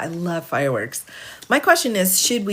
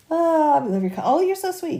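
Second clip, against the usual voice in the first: delighted thanks; 10 semitones higher than usual. Real, not acted. Thanking viewers for gifts.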